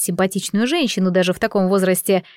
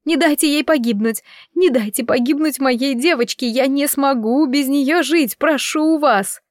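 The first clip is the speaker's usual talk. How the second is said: tearful begging; 5 semitones higher than usual. A narrator's reading. Mother begs for her daughter.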